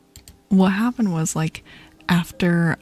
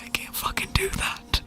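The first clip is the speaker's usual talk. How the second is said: laughing protest; 14 semitones higher, 7 dB quieter than usual. Real, not acted. Laughing refusal of prank idea.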